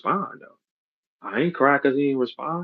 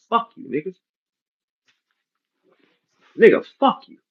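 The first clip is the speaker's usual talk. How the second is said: mock taunt; 6 semitones higher than usual. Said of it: "And then tell him".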